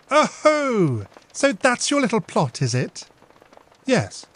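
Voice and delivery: high, loud playful then fond; tease, then say it with love; big sister amused and affectionate; teasing loving sister. Acted. Emily teases then reassures.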